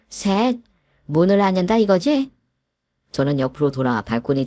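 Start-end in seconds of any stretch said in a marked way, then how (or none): 0.1-2.3 angry threat. Acted. Countdown ends, threat.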